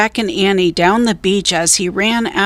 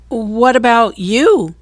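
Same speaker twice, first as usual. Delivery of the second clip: put-on young girl asking; 4 semitones higher than usual. A narrator's reading. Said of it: "said Annie".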